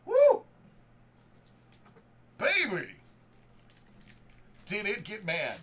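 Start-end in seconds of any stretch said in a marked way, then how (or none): 0.1-0.4 very high, loud whoop; ecstatic whoop. Real, not acted. Card breaker cheering a monster pull, screaming woo. 2.4-2.9 higher, punchy shout of joy; excited cry. Real, not acted. Card breaker still celebrating, shouting baby.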